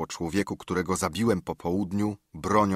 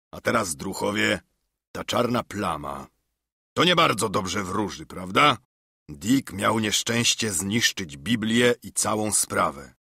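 Silver gloating. Acted. Silver gloating over George.

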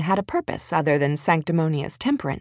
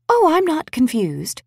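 grinning; 9 semitones higher than usual. A narrator's reading. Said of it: "Bridget grinned".

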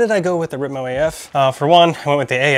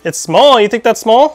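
louder, higher playful disbelief; mock offended; 9 semitones higher, 9 dB louder than usual. Real, not acted. Mock offended reply to child.

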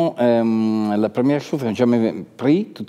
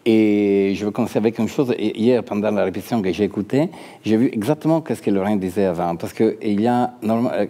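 Italian accent in French. Real, not acted. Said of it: "je m'excuse, mon français".

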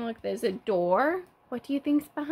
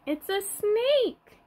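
slow, higher, hammed-up surprise; playful surprise; 8 semitones higher, slower than usual. Teacher revealing a hidden snake to toddlers, slow and high. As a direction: drag out the reveal like a secret.

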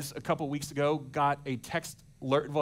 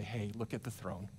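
reassuring future self. Retold or imitated. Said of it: "come back to your present self and say".

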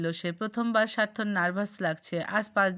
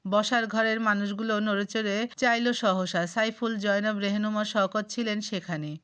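plain reading voice

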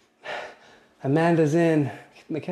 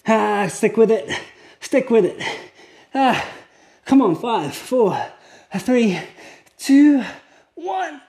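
rising strained countdown, climbing higher; straining with effort; 6 semitones higher, slower than usual. Real, not acted. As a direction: force each number out as the hold burns. Coach counting down through plank.

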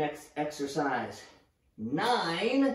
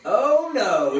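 imitating her; 3 semitones higher, 8 dB louder than usual. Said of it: "she says".

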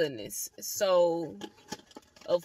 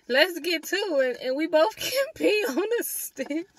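friend's excited idea; 9 semitones higher, 8 dB louder than usual. Retold or imitated. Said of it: "But she was like".

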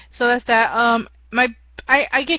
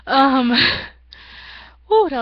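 laughing; 3 semitones higher, 4 dB louder than usual. Real, not acted. Laughs at loud noise.

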